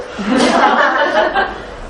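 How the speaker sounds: a burst of high delighted laughter. Real, not acted. Laughing at son's joke. (높게 터지는 웃음)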